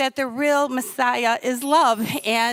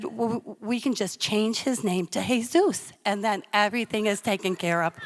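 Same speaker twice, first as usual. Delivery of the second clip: defusing husband; 3 semitones lower, 3 dB quieter than usual. Retold or imitated. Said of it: "trying to, you know, diffuse me".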